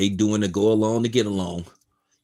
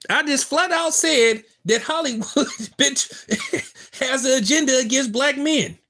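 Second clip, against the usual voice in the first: heated and defensive; 5 semitones higher than usual. Real, not acted. Heated reply to a chatter.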